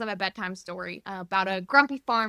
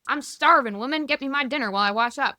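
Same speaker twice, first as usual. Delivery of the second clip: playful husband; 4 semitones higher, 5 dB louder, faster than usual. Retold or imitated. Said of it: "he says it in kind of, like, a playful way".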